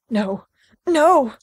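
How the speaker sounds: rising to a loud desperate No. Acted. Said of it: "he says in desperation".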